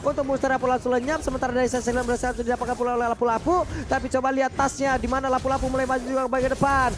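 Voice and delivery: high, fast excited commentary; live play-by-play. Real, not acted. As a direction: call the fight at full pace. (komentar langsung yang cepat dan bersemangat)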